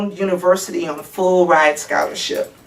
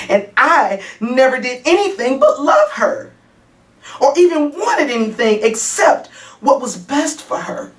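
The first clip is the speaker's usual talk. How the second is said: higher-pitched, earnest self-defence; defensive insistence; 6 semitones higher than usual. Acted. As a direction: insist on your love against the accusation. Mother insists she loved her daughter.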